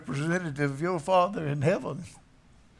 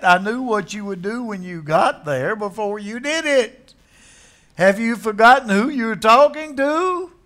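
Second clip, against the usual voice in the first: firm divine rebuke; 3 semitones higher, 3 dB louder than usual. Acted. Jesus voiced, firm rebuke.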